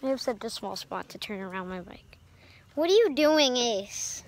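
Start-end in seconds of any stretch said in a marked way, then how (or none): 2.7-4.2 calling to dog. Real, not acted.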